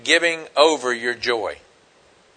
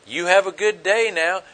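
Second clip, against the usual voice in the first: sincere. Retold or imitated. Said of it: "He didn't say it sarcastically".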